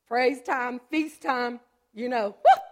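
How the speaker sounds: loud, joyful shout of praise; excited praise. Real, not acted. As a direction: cry it out like a revival. Rejoicing over coming healing.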